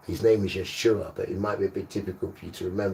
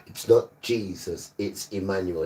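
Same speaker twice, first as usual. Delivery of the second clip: louder stress on NOT. Shown as a demonstration. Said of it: "Let's say it together".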